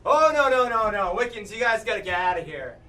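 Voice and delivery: mock-alarmed bartender turning customers away; head them off with a loud run of refusals; protesting bartender. Bartender refuses Wiccans in a joke.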